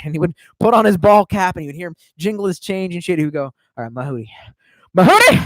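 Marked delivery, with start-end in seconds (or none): 3.8-5.4 mock holler of a catchphrase; loud call. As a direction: call it out like Dad heading to work. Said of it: "He would just say that really fucking loud".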